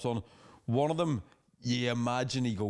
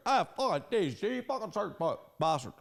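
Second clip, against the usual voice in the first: mock drunk shouting; 6 semitones higher than usual. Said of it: "person shouting".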